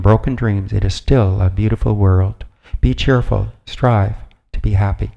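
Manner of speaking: measured, emphatic reading of wise counsel; deliberate phrases, each piece of advice set apart; formal recitation. Acted. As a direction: read it out like a solemn creed. Reads an inspirational text aloud.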